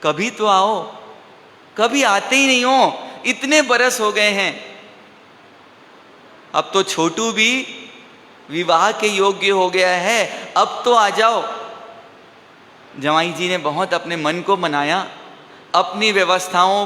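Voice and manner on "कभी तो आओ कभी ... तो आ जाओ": acted coaxing, pitch lifting on the complaint; pleading invitation. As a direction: imitate in-laws pleading for a visit. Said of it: "निवेदन आ रहा है".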